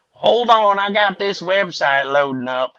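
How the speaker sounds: lightly hammed hillbilly voice; put-on hillbilly twang. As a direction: stall the caller as a hillbilly. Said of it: "I played the regular American hillbilly".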